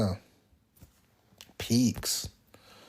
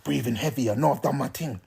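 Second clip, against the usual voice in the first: smug heavy breathing; 4 semitones lower, 10 dB quieter than usual. Retold or imitated.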